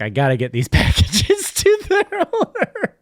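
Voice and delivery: high, laughing FedEx man voice; earnest castaway voice. Retold or imitated. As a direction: play the dutiful FedEx guy. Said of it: "he's like".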